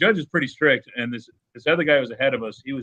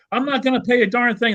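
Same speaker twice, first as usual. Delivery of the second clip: much higher, louder mock refusal; mock defiant refusal; 12 semitones higher, 4 dB louder than usual. Trucker refusing the judge, mock defiance. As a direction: imitate the trucker flatly refusing. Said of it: "he's all mad about it".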